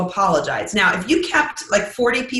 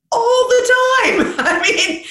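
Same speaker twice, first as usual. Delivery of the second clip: high, laughing confession of constant slip-ups; laughing admission; 13 semitones higher, 4 dB louder, slower than usual. Real, not acted. To host, laughing about saying stupid things. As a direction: laugh it out, owning the flaws.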